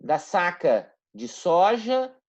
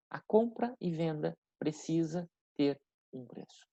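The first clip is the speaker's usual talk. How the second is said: deliberate repetition; 8 dB quieter than usual. Shown as a demonstration. Key point repeated slowly for students.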